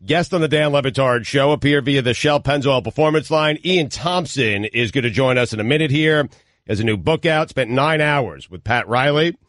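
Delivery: even, announcer-style read; radio sponsor read. Real, not acted. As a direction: read the sponsor copy on air.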